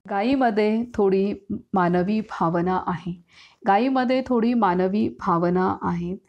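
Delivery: measured devotional story read-aloud; narrating a saint's tale to devotees. A narrator's reading. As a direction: read it out from the book, lightly expressive.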